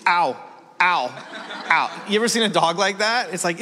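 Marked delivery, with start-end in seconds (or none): 0.1-2.0 short mock yelps of pain; imitated hurting dog. Blind old dog hobbling along, imitated pained yelps. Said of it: "you can see it's".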